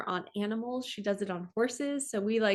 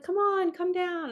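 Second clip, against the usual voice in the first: slow, high-pitched mock coaxing; coaxing friends; 10 semitones higher, 4 dB louder than usual. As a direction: imitate friends calling down, high and drawn out. Friends coaxing her to come down.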